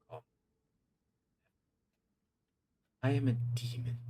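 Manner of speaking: haughty, partly hushed demon voice; offended archdemon. Acted. Archdemon correcting the sheriff, haughty and offended. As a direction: correct him with wounded pride.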